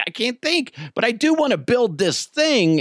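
imitating his son. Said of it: "He's like".

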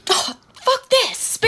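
put-on stereotyped girl's voice. Mock girl's voice, voicing a typical spam poster. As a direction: squeak it out like a caricature of a girl. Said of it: "stereotype a certain kind of girl's voice".

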